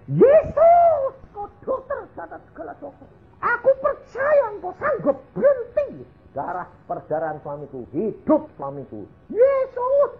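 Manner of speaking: high-pitched, frantic mock screaming; hysterical screaming. Wife crying out to Jesus at the deathbed, hysterical screaming. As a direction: wail it out like someone hysterical. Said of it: "dia teriak-teriak kayak orang histeri".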